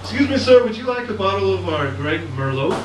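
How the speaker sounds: "Merlot" ending in a hard, sounded T; sounded final T. Retold or imitated. Restaurant worker offering wine, "Merlot" with the T sounded. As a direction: pronounce the last T of "Merlot". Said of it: "people actually pronounce the T's".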